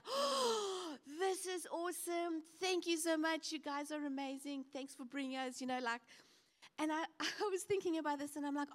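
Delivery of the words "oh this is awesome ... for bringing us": high, delighted gush; excited kids. Retold or imitated. Kids thanking parents at the aquarium, high and excited. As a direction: burst out like thrilled children. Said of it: "then they're like".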